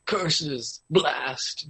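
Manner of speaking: lightly voiced cartoon villain cursing; Vegeta. Quoting a censored anime dub, mock cursing. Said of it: "Vegeta would always be like".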